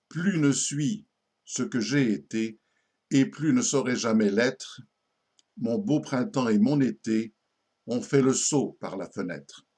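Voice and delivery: measured verse reading with pauses between lines; poem recitation. Acted. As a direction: recite a quatrain, letting each line settle. Récite un quatrain sérieux. (récitation posée d'un poème)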